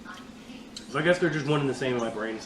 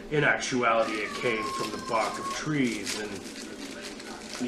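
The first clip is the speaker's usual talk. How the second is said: TV announcer voice; 3 semitones lower than usual. Acted. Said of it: "I think I'm just doing the T V announcer voice".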